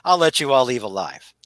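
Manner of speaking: mock hearty laugh easing into speech; acted villain laugh. Retelling a villain conceding defeat, acted laughing. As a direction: laugh it off as a gracious loser, settling down. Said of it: "Ra's al Ghul starts laughing".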